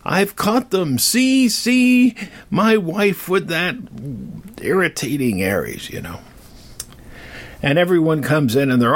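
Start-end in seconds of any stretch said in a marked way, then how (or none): 0.0-5.9 indignant shout. Retold or imitated. Hephaestus to the gods, a high indignant shout. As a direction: shout it like a betrayed husband exposing them. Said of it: "and he says".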